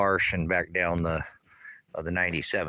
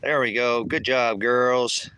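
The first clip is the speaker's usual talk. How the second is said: higher, cheery pet praise; praising the hens; 4 semitones higher than usual. Real, not acted. Farmer praising the hens for coming, high cheery praise. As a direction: cheer the chickens on.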